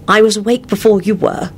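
high, embarrassed confession; mortified. A narrator's reading. Woman admitting she was awake, mortified. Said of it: "she replied in a mortified tone".

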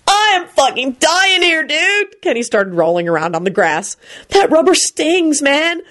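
high, slow dude voice; milk the fake pain; hammed-up Kenny. A narrator's reading. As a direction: dude whining about a rubber chicken. Kenny complaining dramatically.

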